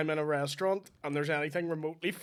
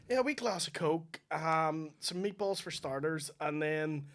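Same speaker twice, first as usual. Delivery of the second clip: put-on Italian accent; 3 semitones higher, 4 dB louder than usual. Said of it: "I switch to the accent".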